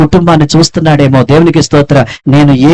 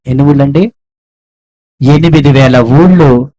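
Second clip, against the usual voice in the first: ఎనిమిది వేల ఊళ్ళు drawn out very slowly, ఊళ్ళు held; preacher quizzing the congregation, then slow stress; slow emphatic answer; slower than usual. Shown as a demonstration. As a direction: savour the huge number.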